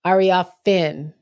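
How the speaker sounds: "Ariafin" sounded out slowly, ending on a clear FIN; careful name pronunciation. Shown as a demonstration. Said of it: "Kiki's last name is pronounced".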